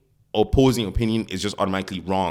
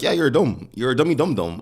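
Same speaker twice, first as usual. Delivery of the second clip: higher, mock-blunt put-down; blunt teasing; 5 semitones higher, 3 dB louder than usual. Harsh-guy dad to his kid, blunt. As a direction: tell a kid off with playful bluntness.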